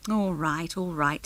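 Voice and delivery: grudging, sulky all right; giving in with a mild sulk; a touch of sulking, conceding the point. Acted. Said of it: "rather sulkily".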